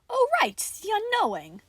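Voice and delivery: airy remembering. Acted.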